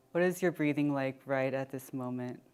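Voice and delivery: unhurried check-in with body and breath; guided meditation. Acted. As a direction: ease them inward, leaving long pauses.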